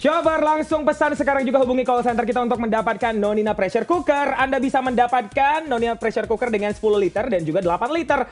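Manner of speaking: upbeat sales pitch read; infomercial. Acted. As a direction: sell it like a TV ad voiceover. Voiceover product promo read.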